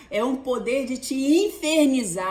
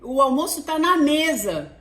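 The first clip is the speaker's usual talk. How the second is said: calling daughter; slower than usual. Retold or imitated. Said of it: "eu chego assim".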